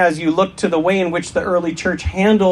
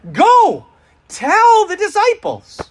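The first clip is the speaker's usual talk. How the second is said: put-on broad singsong kids theatre; 13 semitones higher, slower than usual. Angel's command quoted in sermon.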